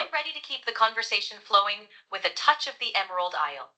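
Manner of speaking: light Irish lilt; Irish accent. Pretend. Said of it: "Why don't you bring that back for us".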